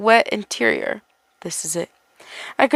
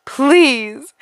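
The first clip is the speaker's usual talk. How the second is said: desperate plea; 3 semitones higher, 3 dB louder than usual. Acted. Begging in terror.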